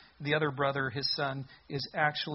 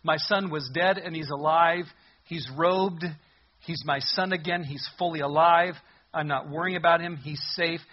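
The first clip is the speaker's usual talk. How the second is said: celebrating father; 5 dB louder than usual. Acted. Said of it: "Dad's in full celebration mode".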